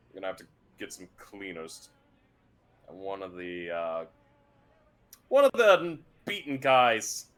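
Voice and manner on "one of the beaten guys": loud, slow drawn-out groan of pain; groaning beaten guy. Acted. Beaten guard groaning about his spleen. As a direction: stretch it out like a hurt thug.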